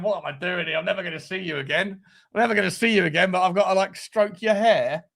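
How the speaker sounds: a lightly voiced drunk lad wondering why he's cuddling a stranger; mock-puzzled mumble to himself; awkward inner monologue.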